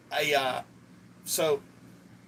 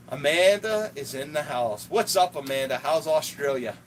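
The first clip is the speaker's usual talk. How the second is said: hype shout-out; 5 dB louder, slower than usual. Real, not acted. Greeting a viewer on stream.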